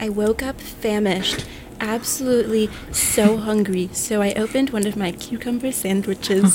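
slow, drawn-out influencer voice; imitating plane lady. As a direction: stretch it out like a dreamy influencer. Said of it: "she was like".

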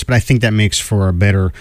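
a bit hoarse from singing along. Real, not acted. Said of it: "a little hoarse".

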